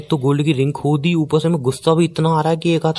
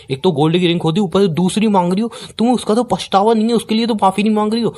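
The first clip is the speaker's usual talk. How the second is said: indignant, pitch climbing steadily higher; angry scolding; 5 semitones higher than usual. Acted. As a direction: scold her in rising disbelief. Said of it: "आप मुझ पे इतना चिल्ला रहे हो". (गुस्से में डांट, चढ़ता सुर)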